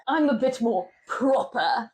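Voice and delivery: put-on slow, prim British accent; mock British accent. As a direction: stretch it out in proper British. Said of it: "we've gone into an accent".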